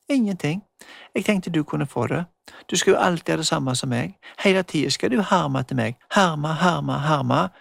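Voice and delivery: lightly voiced girl, mocking; teasing girl. Magda teasing Emma.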